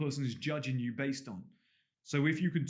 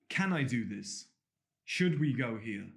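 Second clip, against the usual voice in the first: questioning, unsure tone; 2 semitones lower, slower than usual. Shown as a demonstration. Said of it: "saying things almost with a question".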